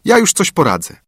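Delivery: put-on girl reassuring. A narrator's reading. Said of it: "rzekła Białośnieżka".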